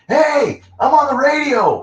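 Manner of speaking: high, loud excited holler; yelling out the window. Retold or imitated. Musician hearing own song on the radio, yelling out the window. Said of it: "yelling out the window".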